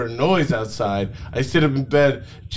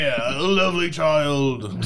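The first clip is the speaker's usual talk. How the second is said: hammed-up Donkey impression. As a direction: switch to Donkey instead. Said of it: "I'll do Donkey".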